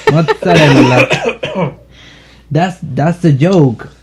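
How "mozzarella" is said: mock Italian accent. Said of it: "you sound Italian".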